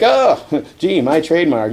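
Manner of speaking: high-pitched wry "oh" easing down; mock quipping dismay. Hero quips at the giant spider, mock dismay. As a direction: toss it off as a wisecrack.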